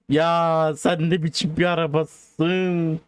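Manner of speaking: slow, stretched-out complaint; exasperated scolding. Real, not acted. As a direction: drag out the words in exasperation. Scolding the car that misbehaves.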